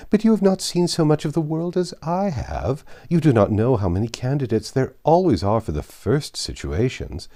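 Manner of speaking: lightly voiced gushing matron; Mrs Elton. Matron boasting of her grand connections to Jane, gushing.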